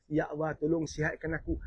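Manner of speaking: low, softened plea for help; pleading prayer. Acted. A sick person asks Allah for healing, quiet pleading. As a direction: beg gently, as if praying while sick. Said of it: "kita merayu pada Allah".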